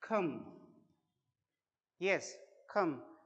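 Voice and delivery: खम said slowly with an aspirated kh; aspirated foreign kh. Shown as a demonstration. Teacher repeating the foreign खम slowly. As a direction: drag out खम, puffing air on the k. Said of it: "वो pronounce करते हैं इस word को".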